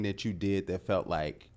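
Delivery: whispering. Real, not acted. Asks in a hushed voice.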